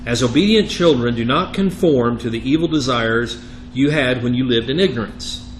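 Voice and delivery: emphatic, measured reading of Scripture. Acted. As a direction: read the verse out firmly to the class. Reads Scripture aloud.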